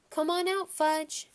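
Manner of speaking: high loud coaxing call. A narrator's reading. Peter calling his lost brother, high coaxing call. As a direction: coax him out like a puppy.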